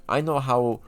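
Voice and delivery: a faint, lightly put-on Russian accent; a hint of a Russian villain's accent, barely there. Imagined government official plotting against Americans, faint Russian accent. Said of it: "I'm doing my Russian accent".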